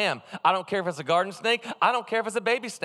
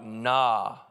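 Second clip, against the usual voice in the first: refusing God. Pretend. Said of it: "And I'd be like".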